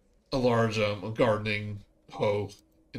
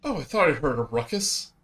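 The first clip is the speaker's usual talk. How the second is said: lightly voiced bugbear; 4 semitones higher, 3 dB louder than usual. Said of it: "she goes".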